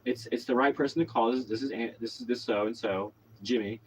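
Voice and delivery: retold calm, matter-of-fact instruction; calmly composed, imitating own reassurance. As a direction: talk someone down evenly. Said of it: "calmly said".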